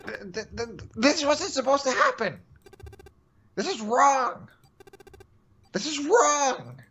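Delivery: fearful shaking voice. Acted. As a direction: let your voice shake with fear. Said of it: "His voice shook with fear".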